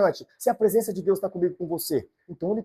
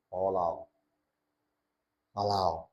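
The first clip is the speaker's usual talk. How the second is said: soft lower pointing out; 7 semitones lower, 6 dB quieter than usual. Acted. God spots the humble heart.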